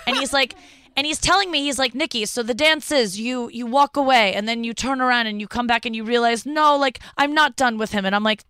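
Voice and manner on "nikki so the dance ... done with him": hint of a Russian accent. Dancer quotes her partner explaining the routine, light Russian accent. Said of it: "try to put on the Russian accent".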